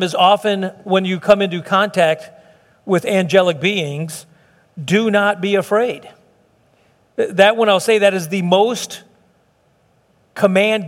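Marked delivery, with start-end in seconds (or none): 4.8-6.1 measured, somewhat slow quotation; measured quote. Retold or imitated. Preacher quoting the angel to the congregation, measured. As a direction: quote the command in an even, unhurried way.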